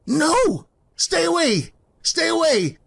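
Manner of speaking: terrified pleading. Acted. Scrooge begging the dark figure to stay away, terrified. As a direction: beg for your life as it closes in. Scrooge dragged toward doom.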